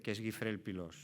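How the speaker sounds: "Guifré el Pilós" said the Catalan way, stress on the final "-ré" and "-lós"; Catalan name. Real, not acted. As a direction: give "Guifré el Pilós" its native Catalan sound. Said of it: "dicho en catalán".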